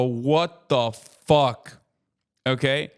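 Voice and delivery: a slow, drawn-out shocked "what the fuck"; startled stranger. Retold or imitated. Passerby spotting the streamer on the street, drawn-out shock. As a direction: stretch it out like a stunned passerby. They see my big ass and go.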